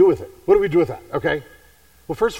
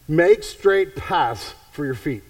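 slow, weighty reading of "Make straight paths for your feet."; slow emphatic reading; much slower than usual. Shown as a demonstration. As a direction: lean on every word of the verse.

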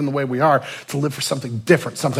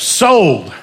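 sold; 5 semitones higher, 9 dB louder than usual. Retold or imitated. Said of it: "And the man goes".

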